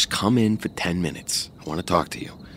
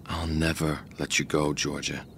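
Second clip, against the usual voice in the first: low menacing whisper; possessive whisper; 5 semitones lower, 6 dB quieter than usual. Acted. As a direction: breathe the threat quietly. Joe answers possessively, hushed.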